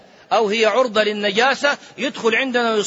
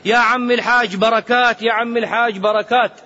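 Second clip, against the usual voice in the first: loud, higher mocking call of a title; 5 semitones higher, 4 dB louder than usual. Mocking people who hail pilgrims, loud jeering call. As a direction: jeer the title out loudly. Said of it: "بعض الناس الآن صار يستهزئ".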